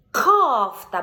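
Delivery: Кофта, loud, К pushed out clearly; голосно, чітке К; loud Кофта with hard К. Shown as a demonstration. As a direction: show the child a clean К in Кофта. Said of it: "Бачите, я не чіпаю язичок".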